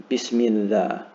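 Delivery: "Bismi Allah" run into one word, "Bismillah"; "Bismillah" as one connected word; words run together. Shown as a demonstration. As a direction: say "Bismillah" joined, with no break before the "llah". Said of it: "gonna sort of run into each other".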